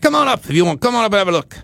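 high-pitched, hammed-up attempt at English accent; bad English accent. English pest guy inviting the homeowner onto the roof, bad English accent. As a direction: call out in a poor mock English accent. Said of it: "You have a very good accent".

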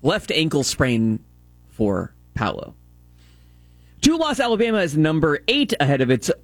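measured sports update read; sports news read. Real, not acted. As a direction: read the scores like a radio update.

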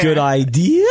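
high voice that breaks; squeaky cracking voice. Real, not acted. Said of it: "I'm getting high today".

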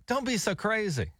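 teasing a friend, light and slow; playful teasing. Retold or imitated. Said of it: "I'm like".

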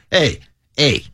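imitating a Chicago guy talking to cops; Chicago accent. Man explaining his side chick to cops, Chicago accent. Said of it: "he told the cops in a Chicago accent".

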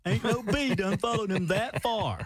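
put-on slow, lightly drawled Alabama accent; mock Alabama drawl. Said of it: "they got the real drawl".

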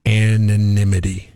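slow, careful Anonymity; slowed right down. Shown as a demonstration. Co-host tackling a word he cannot do, slowed down. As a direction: stretch out Anonymity syllable by syllable. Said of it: "unless I really slow it down".

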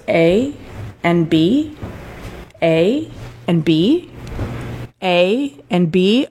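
slow, stunned repetition; dazed repeating. Retold or imitated. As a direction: say it over and over in shock. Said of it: "he just goes".

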